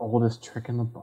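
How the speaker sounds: soft, muttered aside under the breath. Playing a character in a game, muttering under the breath. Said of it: "mutter under my breath".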